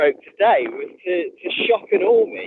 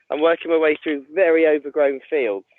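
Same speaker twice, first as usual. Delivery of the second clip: out of breath. Real, not acted. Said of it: "If I'm out of breath".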